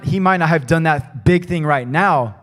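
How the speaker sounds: ordinary delivery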